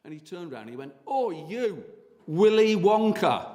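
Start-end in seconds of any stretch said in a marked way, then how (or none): 1.1-3.5 jeering shout. Retold or imitated. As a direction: taunt him from across the street. Youth jeering at costumed guide.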